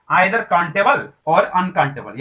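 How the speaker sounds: very slow, word by word dictation; dictation pace. Shown as a demonstration. Teacher dictating the rule of the to students. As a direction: read the rule out slowly so students can copy. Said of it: "repeating rule slowly".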